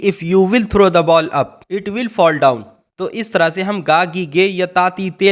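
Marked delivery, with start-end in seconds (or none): 0.0-2.6 very slow, showing the mistaken "will"; teacher's incorrect example, spoken slowly; wrong version. Shown as a demonstration. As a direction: read out the wrong form slowly as a warning. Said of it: "अब यहाँ पर हम ये नहीं बोलेंगे कि".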